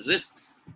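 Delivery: "Risks" with every final consonant sounded; clearly sounded ending. Shown as a demonstration. Teacher modelling word endings, "Risks" with a full ending. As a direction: finish "Risks" on a distinct ks and s. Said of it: "these are end of word pronunciation mistakes".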